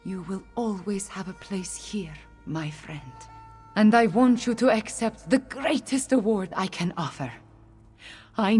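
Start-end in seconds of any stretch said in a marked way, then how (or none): 0.0-3.0 soft, intimate reassurance; hushed, heartfelt welcome; tender gratitude. Acted. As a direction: speak gently to a dear friend. Tender thanks to a friend.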